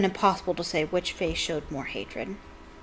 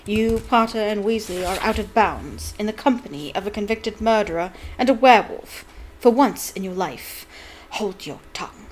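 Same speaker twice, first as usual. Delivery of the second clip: cold scolding teacher. Acted. Snape scolding students.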